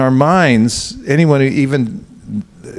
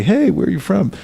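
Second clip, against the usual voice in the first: higher, cheery hello; friendly greeter; 6 semitones higher than usual. Retold or imitated. Devotee greets a stranger cheerily in a higher voice. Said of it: "we used to shake hands".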